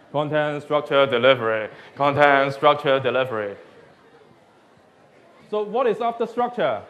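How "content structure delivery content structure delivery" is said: louder repetitive trance chant; brainwashed monotone. Shown as a demonstration. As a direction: drone it like a mantra. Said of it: "Do it in a hypnotized tone".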